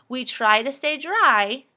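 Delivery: "We try to stay dry" with a short pause after "dry"; quick pause at the comma. Shown as a demonstration. Teacher showing pupils the comma pause after "dry". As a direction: stop briefly after "dry". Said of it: "that's going to be a quick little pause".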